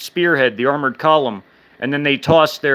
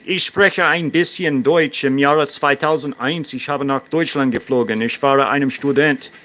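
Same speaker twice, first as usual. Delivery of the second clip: speaking German. Shown as a demonstration. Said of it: "I speak German and English".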